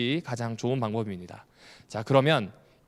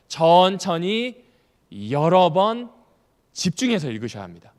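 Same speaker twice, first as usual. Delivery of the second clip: each phrase set apart, louder, very slow; slow emphatic list; 6 dB louder, slower than usual. Shown as a demonstration. Lecturer drilling reading attitude to congregation, slow emphatic. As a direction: spell out each step like a rule. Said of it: "다시 말씀드릴게요".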